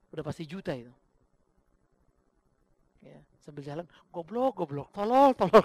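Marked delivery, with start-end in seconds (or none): 4.1-5.6 mock cursing that builds louder; retold inner shout. Pastor walking off cursing the thin envelope, mock angry shout. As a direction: replay cursing to yourself, rising to a mock yell. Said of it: "Itu manusia saya teriak".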